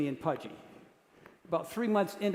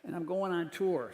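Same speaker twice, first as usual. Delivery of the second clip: Singer's voice; 7 dB quieter, slower than usual. Retold or imitated. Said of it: "There's Tom with a cigarette".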